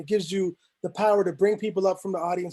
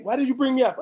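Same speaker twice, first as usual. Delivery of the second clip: higher-pitched imitation of an aggrieved complaint; mock complainer; 5 semitones higher than usual. Audience member blaming Mech for leaving them out, mock complaint. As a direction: lightly voice someone blaming the host. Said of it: "prevents people having to blame Mech".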